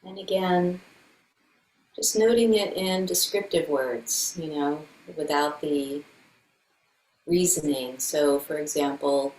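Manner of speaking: calm meditation guide with long silences; guided meditation. Acted. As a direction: gently lead a body check-in, leaving room between phrases. Leads a meditation.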